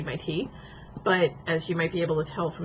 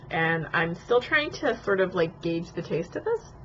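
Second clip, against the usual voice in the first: sipping hot tea between words; slurping tea. Real, not acted. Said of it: "Sorry for slurping, but it's hot".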